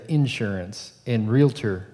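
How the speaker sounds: "insurance" and "realtor" said slowly with the weight on the first syllable, IN-surance, REE-la-tor; Southern Indiana pronunciation. Shown as a demonstration. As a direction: drawl out "insurance" and "realtor" stressing the front, Southern Indiana style. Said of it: "in Southern Indiana, people say".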